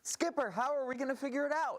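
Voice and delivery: Gilligan voice. Acted. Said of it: "elements of Gilligan's Island".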